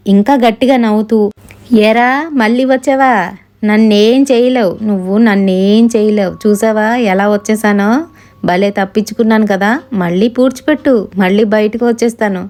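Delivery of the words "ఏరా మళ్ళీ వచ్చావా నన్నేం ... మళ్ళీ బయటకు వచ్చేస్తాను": mocking possessed spirit voice. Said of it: "గట్టి గట్టిగా నవ్వుతున్నాడు".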